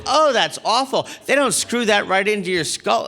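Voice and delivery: high, appalled reaction; mock horror. Woman reacting to halo bolted on his head, mock horror. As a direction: exclaim in high mock dismay.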